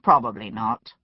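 low, composed reply; calm. A narrator's reading. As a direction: answer evenly, unruffled. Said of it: "Pitt said calmly".

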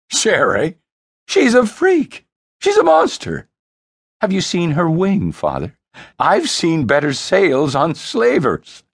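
high, sneering mockery of his sister; sneering brother. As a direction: spit out the insult with contempt.

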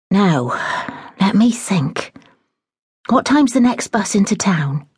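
lightly voiced flustered housekeeper; a hint of a fussing older woman in a fluster; fretful housekeeper. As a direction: housekeeper resolving to fetch her mother, flustered.

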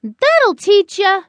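high, slow, drawn-out threat; scolding warning. A narrator's reading. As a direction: stretch out a high-pitched telling-off. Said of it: "then warned".

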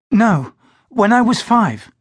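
Glynis's voice. Acted. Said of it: "she said".

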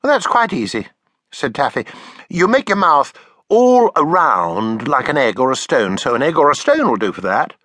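put-on high eager little girl; child voice. Taffy copying her father's drawing: high eager child voice.

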